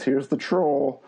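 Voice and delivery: slow, laughing mock troll voice. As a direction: drawl it out like a grumpy bridge troll. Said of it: "he pops out and says".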